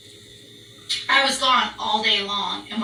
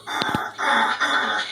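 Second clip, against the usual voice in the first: low unvoiced dog bark imitation; imitated dog woofing; 3 semitones lower, much slower than usual. Woman mimicking her dog Colt getting excited, imitated barking. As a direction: mimic a dog's rough arr. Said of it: "Colt goes".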